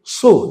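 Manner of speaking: সু said with tightly rounded lips. Shown as a demonstration. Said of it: "ঠোঁটটা গোল করতে হবে". (ঠোঁট গোল করে সু)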